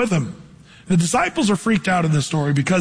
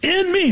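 "In" pitched much higher, punched; stress on in; 10 semitones higher than usual. Shown as a demonstration. Preacher stressing the preposition, "In" high. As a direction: hit "In" high and hard. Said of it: "the preposition there is huge".

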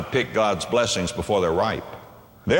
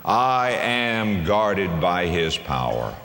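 slow declaration; 4 semitones lower, much slower than usual. Shown as a demonstration. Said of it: "You can say this in the midst of your storm".

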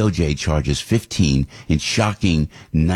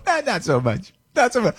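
high, dismissive mock Democrat voice; 13 semitones higher than usual. Host mocks Democrats dismissing biological women, in a high mock voice. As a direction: toss it off like a smug Democrat. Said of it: "the Democrats go".

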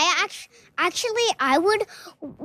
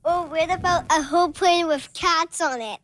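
laughing. Real, not acted. Giggling idea of cat planet.

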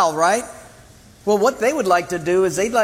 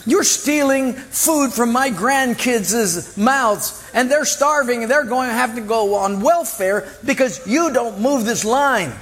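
raised, whiny complaining mother; a mother pleading her son's case, higher and insistent; indignant mother; 4 semitones higher than usual. Retold or imitated. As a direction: protest like an aggrieved parent. Mother protesting to umpire.

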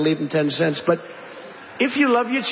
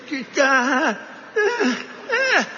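straining cry; 7 semitones higher, much slower than usual. Retold or imitated. Lifter straining under the weight.

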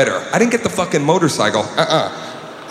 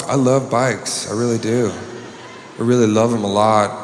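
put-on girl gushing; 5 semitones lower, 4 dB quieter than usual. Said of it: "she goes".

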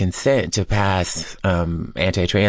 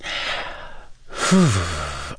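heavy sigh; 3 dB quieter than usual. Real, not acted. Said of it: "I'm just trying to gather my resilience".

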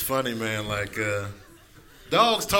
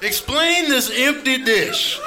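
yelling cat; 5 semitones higher than usual. Acted. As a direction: demand your breakfast like an outraged cat. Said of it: "cats are yelling at you".

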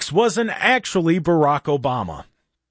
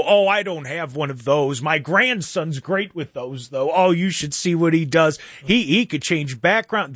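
slow, doddering grandpa; a hint of a rambling old man; 2 semitones higher than usual. Newsman fooling scammers as a slow old man. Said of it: "talking like an old man".

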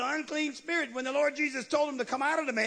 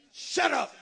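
sharp command; 4 semitones higher than usual. Retold or imitated. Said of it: "let me translate".

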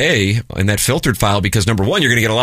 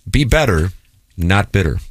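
mildly patronizing advice, measured; gently lecture, pausing between the halves; lightly condescending mentor; condescending counsel. Retold or imitated. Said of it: "says it in a condescending tone".

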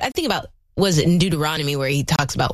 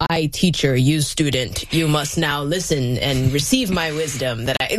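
slightly lowered, hammed-up teacher voice; mock authority voice; 2 semitones lower than usual. Teacher lecturing student from above, mock authority. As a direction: lightly play a self-important instructor. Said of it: "That was my authority voice".

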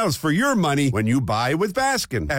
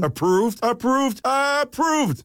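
rising with each approved; building excitement; 4 semitones higher, slower than usual. Acted. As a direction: climb higher each time. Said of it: "you know I love saying".

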